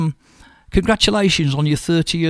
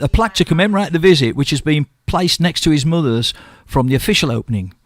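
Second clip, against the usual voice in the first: local radio news item, read out evenly. Real, not acted. Radio host tells listeners of royal hospice visit, news read. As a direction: read the charity story out to listeners.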